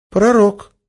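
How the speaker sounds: high, bright cheerful exclaim; almost cheerful. Acted. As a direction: say it almost gleefully. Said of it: "почти весело произнесла Ольга".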